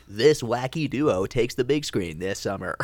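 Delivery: slow hammed-up trailer announcer. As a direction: stretch it out like a cheesy trailer. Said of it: "And it was like".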